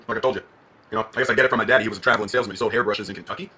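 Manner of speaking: put-on hammy Southern accent. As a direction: play a Southern good old boy. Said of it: "putting on a Southern accent".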